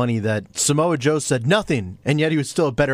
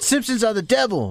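religious mother; 8 semitones higher than usual. Retold or imitated. Mother's religious verdict retold.

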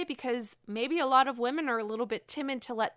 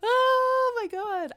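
laughing oh my God; 12 semitones higher, 4 dB louder, much slower than usual. Real, not acted. After laughing.

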